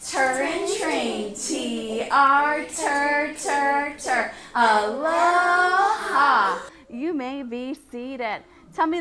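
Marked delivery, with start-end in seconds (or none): 0.1-6.6 slow loud Hawaiian greeting. Shown as a demonstration. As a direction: drawl it out like a Hawaiian. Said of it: "Be Hawaiian".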